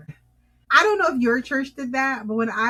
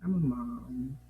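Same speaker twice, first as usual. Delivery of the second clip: deadpan aside; 8 semitones lower, 7 dB quieter than usual. Real, not acted.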